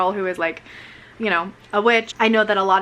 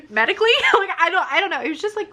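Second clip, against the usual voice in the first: laughing; 9 semitones higher, much faster than usual. Real, not acted. Laughing about vampire fangs.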